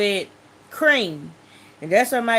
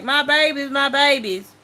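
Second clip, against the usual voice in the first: higher-pitched imitation of a frantic dad; mild mock yell, pitched up; retold cry; 5 semitones higher than usual. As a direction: imitate a father crying out for his babies. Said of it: "my mom went to screaming".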